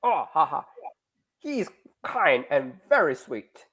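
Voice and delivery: lightly put-on, slow Russian accent; horrible Russian accent. Teacher playing the girl praising Dmitry, rough Russian accent. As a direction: attempt a bad Russian accent, unhurried. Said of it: "I do a horrible Russian accent".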